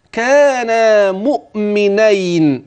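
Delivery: كانا very slow, stressed as a dual; slow emphatic كانا مؤمنين. Shown as a demonstration. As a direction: lean on كانا. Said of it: "فده مثنى مش جمع".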